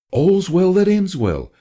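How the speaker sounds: smiling, slow and pleased; with a smile. Acted. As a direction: savour it with a satisfied smile. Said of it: "said Mum with a smile".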